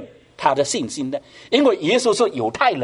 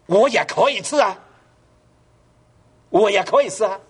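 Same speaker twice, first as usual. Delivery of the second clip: pleading woman; 6 semitones higher than usual. Acted. Canaanite woman's plea voiced.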